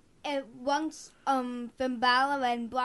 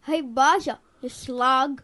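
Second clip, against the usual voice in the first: put-on quick British accent, a bit louder; 5 dB louder than usual. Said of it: "in your British accent".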